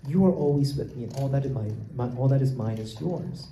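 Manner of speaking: gently reassure, full of love; tender, loving. Shown as a demonstration. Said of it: "caring and loving word".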